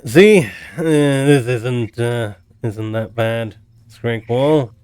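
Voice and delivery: halting, careful plea to a dragon; character voice. Acted. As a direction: ease into it, hesitant. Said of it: "he's like".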